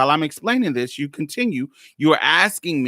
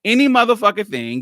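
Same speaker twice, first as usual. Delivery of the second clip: pissed off; 6 semitones higher, faster than usual. Retold or imitated. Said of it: "Now I'm cussing, so you know I'm pissed off".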